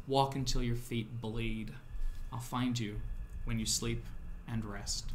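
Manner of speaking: slow, measured command with long pauses; commanding mysterious woman. Acted. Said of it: "pinches her cheek and she says".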